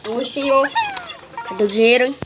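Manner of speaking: loud playful demand for the money; mock-stern shout at a customer. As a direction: bark it like a pushy cashier.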